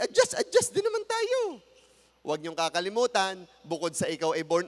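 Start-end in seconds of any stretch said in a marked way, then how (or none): 0.0-1.6 lighter. Real, not acted. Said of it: "adjusting voice".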